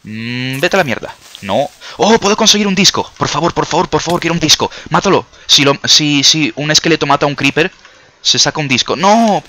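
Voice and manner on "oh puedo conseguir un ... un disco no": high, loud, eager pleading; excited. Real, not acted. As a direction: beg excitedly for the disc. Hoping skeleton kills creeper.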